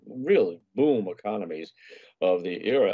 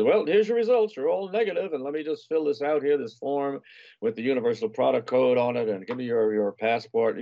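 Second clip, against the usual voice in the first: pharmacist voice; 5 semitones higher than usual. Retold or imitated. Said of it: "he said".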